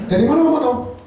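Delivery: put-on high, loud laughing child; the child asking Mom how she knows; child's voice. Child asking mother in story. (meniru suara anak sambil tertawa)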